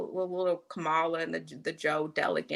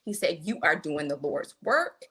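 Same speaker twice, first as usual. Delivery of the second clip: gentle comfort. Retold or imitated. Young man in church comforting a crying woman, slow and gentle. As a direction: comfort her slowly and gently. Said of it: "he says".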